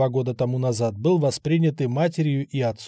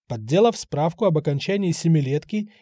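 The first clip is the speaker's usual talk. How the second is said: usual speaking voice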